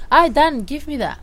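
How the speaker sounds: sweet way. Acted. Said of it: "in a sweet way".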